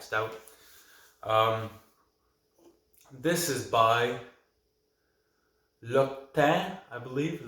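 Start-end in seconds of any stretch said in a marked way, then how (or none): 5.8-6.7 "Loctin" tried with a rising, questioning end; first go at "Loctin", final consonant barely sounded; unsure pronunciation. Real, not acted. Beer reviewer guessing at a brewery name, unsure pronunciation. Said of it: "Might be saying that wrong".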